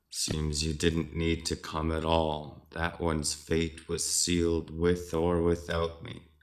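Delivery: put-on a weary old witch shrugging it off. Khan Marie speaking to Blavatsky.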